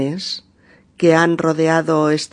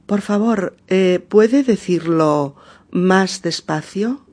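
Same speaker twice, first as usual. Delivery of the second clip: slow model phrase. Shown as a demonstration. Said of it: "O también podemos decir".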